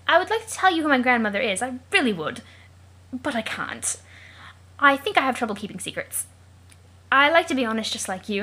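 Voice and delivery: lightly theatrical British storyteller; earnest British adventurer reading a letter; put-on British accent. Jake tells John of his grandmother, British accent. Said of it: "the only reason he has that accent".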